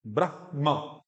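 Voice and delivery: ब्रह्मा with a visarga-like puff before ma; breathed h. Shown as a demonstration. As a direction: release breath in ब्रह्मा, then a full ma. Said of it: "जैसे विसर्ग की आई थी".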